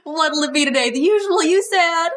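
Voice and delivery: put-on folksy Southern waitress accent. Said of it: "I don't know why Judy has this accent".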